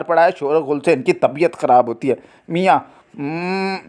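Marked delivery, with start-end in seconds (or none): 3.2-3.8 groan. Acted. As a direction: groan quietly as a sick husband. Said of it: "कराहता है".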